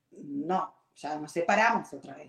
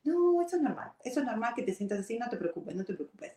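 husband again; 5 semitones higher, faster than usual. Retold or imitated. Ex-husband dismissing bride's tears, mock soothing. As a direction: brush her off gently, voice pitched up. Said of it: "Y yo le decía".

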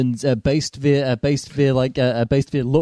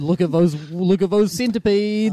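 mock marvelling; 5 semitones higher than usual. Imitating co-host climbing from a well in a videotape, mock marvelling. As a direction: stretch it out higher, imitating someone pointing in awe. Imagined creepy figure in retold scene.

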